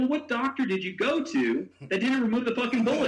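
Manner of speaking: high-pitched disbelieving question; mock-incredulous, pitched well up. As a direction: retell it as a baffled challenge. Teller retells his incredulous question.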